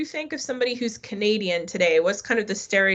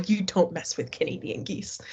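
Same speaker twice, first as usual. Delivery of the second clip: whispered warning; 4 dB quieter than usual. Real, not acted. Warning aside about nasty geese.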